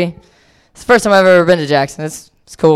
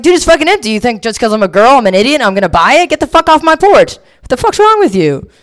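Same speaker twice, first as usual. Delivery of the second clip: high, louder indignant rant; mock angry yell; 7 semitones higher, 3 dB louder than usual. Woman ranting at the hustler on her porch, high mock yell. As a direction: blow up at him, hammed-up fury. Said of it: "and I was like".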